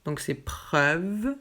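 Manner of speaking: "preuve" drawn out with open œ; slow model word. Shown as a demonstration. Teacher modelling "preuve" slowly for students. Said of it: "c'est ouvert".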